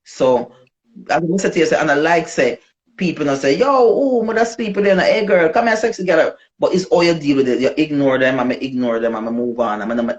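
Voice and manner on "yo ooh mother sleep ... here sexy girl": mock street catcall, higher pitched; catcalling men. Imitating men catcalling a woman in the street. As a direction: call out like a street guy hollering at a girl.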